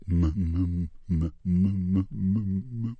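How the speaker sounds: stuck stuttering on the m; repeated m, blocked stutter. Retold or imitated. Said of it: "being a stutterer".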